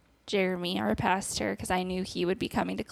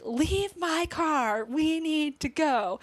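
retold frantic yell; 7 semitones higher, much slower than usual. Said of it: "screaming, being like".

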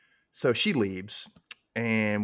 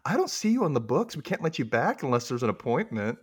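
fake-polite receptionist; 3 semitones higher than usual. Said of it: "And she goes".

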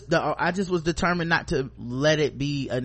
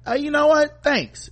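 much higher, louder grateful surprise; pleasantly surprised; 11 semitones higher, 4 dB louder, slower than usual. Retold or imitated. Coworkers thanking him for biscuits, pleasantly surprised. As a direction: caught off guard by free biscuits. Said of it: "people were like".

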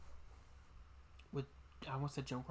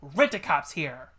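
slow, loud, drawn-out movie line; Loretta Devine; 9 dB louder, slower than usual. Retold or imitated. Fan quoting the rent-a-cop's entrance, loud and drawn out. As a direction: hit each word with hammed-up emphasis. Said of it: "Loretta Devine shows up and she goes".

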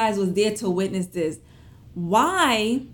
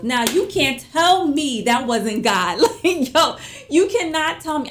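excited; 6 semitones higher, 6 dB louder than usual. Real, not acted. Amazed at the IRS check timing.

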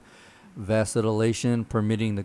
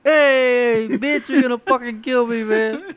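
high, loud copy of the scared dad; mock the startled dad's yell; mimicked panicked outrage; 13 semitones higher, 8 dB louder, slower than usual. Mimics the clip just played.

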